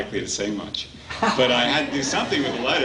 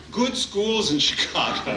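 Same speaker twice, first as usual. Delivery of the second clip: higher, amused jab; teasing retort; 9 semitones higher than usual. Retold or imitated. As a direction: toss it back with a laugh.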